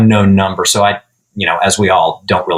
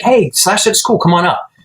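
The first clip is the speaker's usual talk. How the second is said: mock friend voice; 9 semitones higher than usual. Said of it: "he's like".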